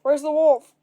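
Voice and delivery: loud, urgent demand; gruff demand. A narrator's reading. Burly villager arriving with a pitchfork, loud demand. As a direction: bark it out. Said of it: "a burly man ... asked".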